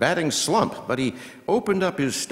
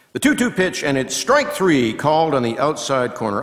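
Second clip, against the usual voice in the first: excited strike call; 4 semitones higher, 5 dB louder than usual. Acted. Called strike three on a pitch.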